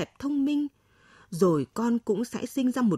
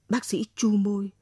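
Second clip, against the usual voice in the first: plain reading voice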